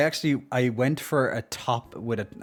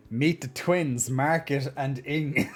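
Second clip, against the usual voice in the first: mock announcer; slower than usual. Presenting joke to stream.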